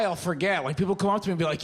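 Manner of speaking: normal talking voice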